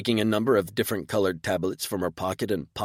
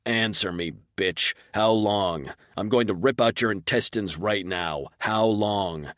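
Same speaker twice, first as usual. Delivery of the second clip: growling. Acted. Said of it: "I growled".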